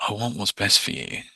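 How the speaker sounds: calm caring. Shown as a demonstration. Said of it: "You want to be calm, caring".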